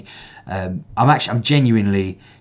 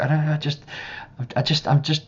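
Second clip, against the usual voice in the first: put-on higher, droopy child's voice repeating it; whiny little boy; 7 semitones higher, faster than usual. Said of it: "And he's just like".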